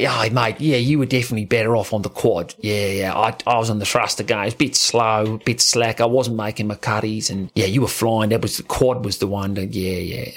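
a laid-back Australian mate, only lightly voiced; hint of an Australian accent, easygoing; Mark Occhilupo impression. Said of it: "doing the voice as well".

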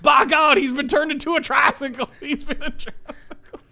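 high shouting ringside announcer call; Oklahoma J R. Retold or imitated. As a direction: yell it like a wrestling play-by-play. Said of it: "full Oklahoma J R".

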